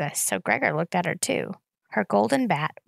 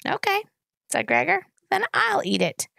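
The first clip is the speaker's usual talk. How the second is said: mock shrug; 11 semitones higher than usual. A narrator's reading. Teasing toddler.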